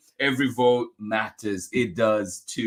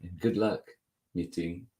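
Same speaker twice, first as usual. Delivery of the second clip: slowing, softening storybook close; story narration; 4 semitones lower than usual. A narrator's reading. Reader wishing luck meeting new classmates, gentle storytelling. Closes the picture book reading.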